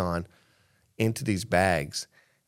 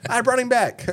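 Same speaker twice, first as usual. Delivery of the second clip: high, laughing through the words; 6 dB louder than usual. Real, not acted. Friend laughing about reviving the kid. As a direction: crack up mid-sentence.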